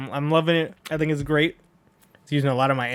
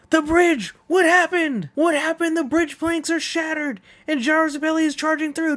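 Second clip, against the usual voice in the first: race announcer voice; 14 semitones higher than usual. Acted. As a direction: call the race like a breathless announcer. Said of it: "doing this announcer voice".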